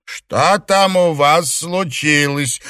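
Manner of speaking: a hint of an old matriarch, slow; old lady calling. A narrator's reading. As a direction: call over from the terrace, slowly. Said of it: "раздался голос матушки Дзя".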